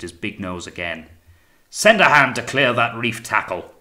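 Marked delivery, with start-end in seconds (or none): 1.7-3.7 loud, higher-pitched command; ordering over wind. A narrator's reading. Captain ordering the tackle cleared, loud command. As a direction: give a businesslike order over the gale. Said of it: "he ordered, in a tone as nearly as normal".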